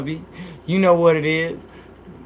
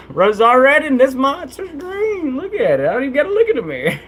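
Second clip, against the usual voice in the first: laughing; 9 semitones higher than usual. Real, not acted. Redoing the poem while laughing.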